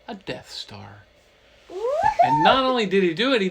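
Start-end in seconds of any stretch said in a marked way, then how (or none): 0.1-1.0 whisper. Acted. Hushed aside naming the Death Star.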